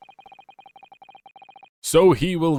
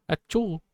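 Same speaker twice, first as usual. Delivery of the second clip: a higher, hammed-up sneeze; mock sneeze; 8 semitones higher than usual. Player fakes a sneeze for a German joke, mock sneeze. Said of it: "a cold in nineteen forties Germany".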